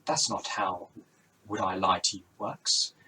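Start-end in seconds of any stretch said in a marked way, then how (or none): 1.5-2.9 badly faked Welsh, drifting towards Indian; wobbly Welsh accent. Rob Brydon explains the quiz to Rosie, wobbly Welsh accent. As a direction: attempt Welsh and let it slip into Indian. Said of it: "Sounds a bit Indian, really".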